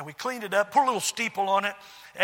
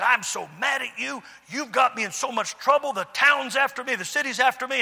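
mock angry complaint, pitched up; retold anger; 4 semitones higher than usual. Landlord blaming the pastor for his trouble, acted anger. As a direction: imitate a mad man's run of grievances. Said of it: "Oh, he was so mad".

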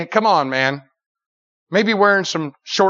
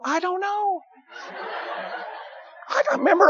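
laughing; 13 semitones higher, 4 dB quieter than usual. Real, not acted. Recalls the funny bus story.

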